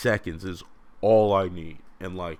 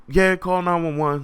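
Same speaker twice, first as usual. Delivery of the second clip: high, loud goofy agreement; hammed-up high yes; mock reply; 10 semitones higher, 5 dB louder than usual. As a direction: toss it off in a squeaky voice. Agreeing to call 911.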